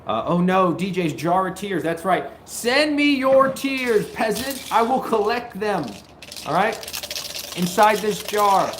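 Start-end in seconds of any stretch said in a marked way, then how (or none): 2.4-8.7 gloating villain. Acted. Streamer taunting chat, hammed-up villain gloat. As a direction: cackle over a jar of tears.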